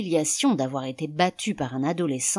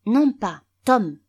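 put-on high, louder small boy voice; little boy; 6 semitones higher, 7 dB louder, slower than usual. A narrator's reading. Son correcting his father on his name, high boy voice. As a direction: pipe up like a young son. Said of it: "Un petit garçon accourut".

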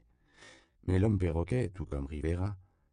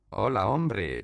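calling out; 4 semitones higher, 5 dB louder, slower than usual. A narrator's reading. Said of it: "lui lança Flore".

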